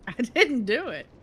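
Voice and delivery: giggling, guilty denial; laughing denial. Real, not acted. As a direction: deny it while laughing. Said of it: "It sounds like something you do".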